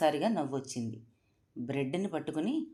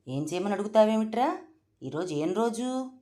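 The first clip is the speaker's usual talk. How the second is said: loud, higher scolding roar; 5 semitones higher, 5 dB louder than usual. A narrator's reading. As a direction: roar at the cook like a stern matriarch. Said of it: "అని గర్జించారు".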